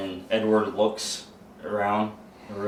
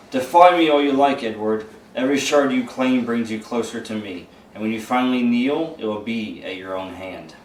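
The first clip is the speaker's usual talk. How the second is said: demonic voice; 3 dB louder than usual. Acted. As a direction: speak as the demon inside him, lightly voiced. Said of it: "you hear that voice return".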